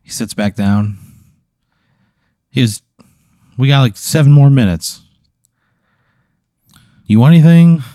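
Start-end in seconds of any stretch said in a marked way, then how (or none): 3.6-7.8 much higher, louder, friendly creature voice; cheery snooze monster. Acted. Snooze monster greeting Pat with a high, chummy voice. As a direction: greet him like an old buddy, high and bright.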